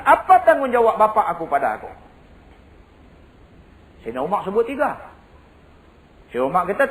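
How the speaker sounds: high, driving sermon storytelling; preaching storytelling. Acted. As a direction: tell the tale at full preaching force. Kisah Saidina Umar diceritakan. (berceramah dengan penuh semangat)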